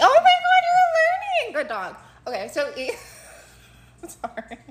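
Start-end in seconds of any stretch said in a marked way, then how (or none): 0.0-2.0 mock praise. Mock praise to friend like pet.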